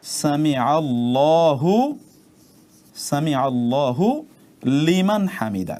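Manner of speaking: very slow সামি আল্লাহু লিমান হামিদা, each word distinct; correct recitation. Shown as a demonstration. Teacher reciting slowly for students to copy. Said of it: "আমরা যেভাবে লিখেছি ঠিক exactly এরকম".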